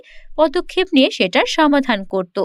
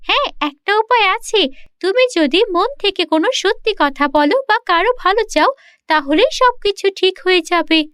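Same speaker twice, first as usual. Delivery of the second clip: magic mirror; 5 semitones higher than usual. Acted.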